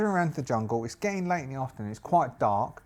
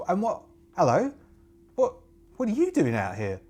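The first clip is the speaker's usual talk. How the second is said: put-on young witch; 6 semitones higher, 3 dB louder than usual. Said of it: "She goes".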